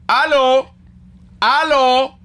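aló, aló called high and loud; Venezuelan phone greeting. Shown as a demonstration. Showing the Venezuelan way to answer the phone, high loud aló. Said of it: "porque uno dice".

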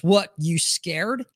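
lightly imitated tough-guy challenge, drawn out; slow, mildly cocky taunt in retelling; a hint of a tough guy sizing someone up. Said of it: "gets tough guy and goes".

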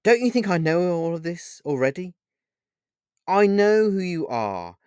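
high, anguished pleading with halting breaks; tearful. A narrator's reading. Paul asks who Pan really is, tearful and high. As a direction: plead through tears, faltering then rising high. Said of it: "asked Paul with tears in his eyes".

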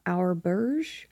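"Auberge" drawn out slowly in a put-on French accent; lent, accent français exagéré; mock French accent. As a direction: stretch "Auberge" like a bad French tourist guide. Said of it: "horrible French accent".

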